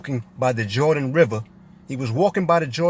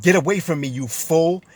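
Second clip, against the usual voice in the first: mildly furious retold rebuke, raised pitch; retold fury; 3 semitones higher than usual. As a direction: act out an angry dismissal, without shouting. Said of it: "Jesus got furious, furious and said".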